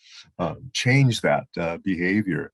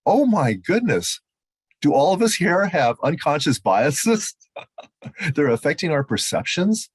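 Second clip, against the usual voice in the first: slow, raised voice of sudden realization; retold dismay; 6 semitones higher than usual. Judge recalling his realization at the seminar, in slow, raised dismay. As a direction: let the shock of it dawn slowly.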